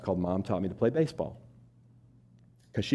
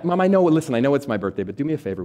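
urgent plea; 5 semitones higher, 6 dB louder than usual. Retold or imitated. Son pleading on his birthday.

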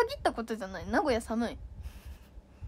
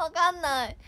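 ordinary delivery

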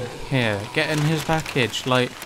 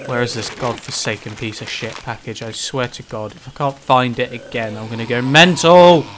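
raging gamer; 4 semitones lower than usual. Real, not acted. Raging at game.

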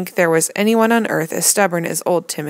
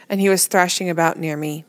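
ordinary delivery, nothing marked

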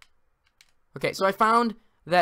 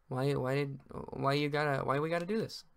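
quiet despair; 2 semitones lower, 9 dB quieter than usual. Real, not acted. Despairing after a death.

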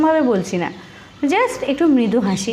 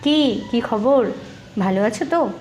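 gentle smiling greeting. Shown as a demonstration. Teacher shows a friendly greeting with a gentle smile. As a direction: greet them kindly, smiling lightly. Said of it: "একটু মৃদু হাসি নিয়ে".

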